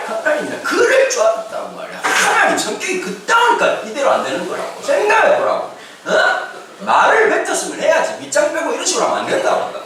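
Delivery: high-pitched, worked-up protest; mock tantrum. Jonah arguing with God over forgiveness, mock tantrum. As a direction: act out an indignant complaint. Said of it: "엄청 성질을 내".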